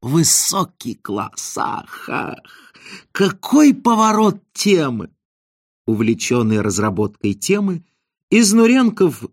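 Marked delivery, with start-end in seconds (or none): 0.0-5.1 delighted laughing. A narrator's reading. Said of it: "заливаясь смехом, произнёс".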